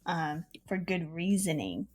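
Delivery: slow and soft, still sleepy; groggy after a nap; just woke up. Real, not acted. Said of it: "I just woke up out of a nap".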